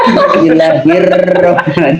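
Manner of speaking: Bismillahirrahmanirrahim with the r rolled far too long; over-trilled R. Shown as a demonstration. Teacher jokingly showing the mistake, Bismillahirrahmanirrahim over-trilled. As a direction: exaggerate every r trill in Bismillahirrahmanirrahim. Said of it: "tidak boleh bergerak lebih dari dua kali".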